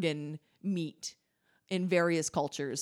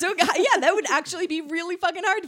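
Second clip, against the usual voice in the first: laughing; 8 semitones higher, 8 dB louder, faster than usual. Real, not acted. Laughing realization, loud and fast.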